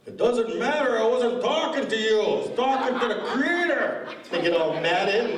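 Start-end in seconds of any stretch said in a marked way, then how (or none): 0.0-4.1 elder's reply. Retold or imitated. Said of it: "My friends wanna know what you said".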